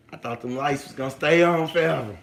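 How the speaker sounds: normal talking voice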